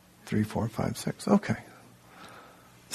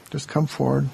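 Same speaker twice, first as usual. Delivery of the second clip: voiced call. Real, not acted.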